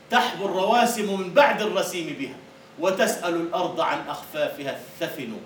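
declaimed verse, measured and full; poem recital. Acted. Teacher reciting poetry to students, declaimed.

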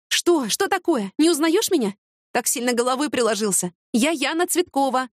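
high, baffled questions; as if he has lost his mind; bewildered, pitched well up; puzzled surprise. Acted.

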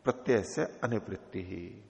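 slow, measured Sanskrit recitation; sutra recitation. Shown as a demonstration. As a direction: intone the sutra slowly, word by word. (धीमा, नपा-तुला सूत्र पाठ)

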